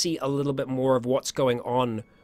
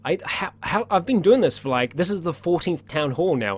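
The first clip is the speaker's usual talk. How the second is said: exasperated; 3 semitones higher than usual. Real, not acted. Exasperated at forgetting drum roll.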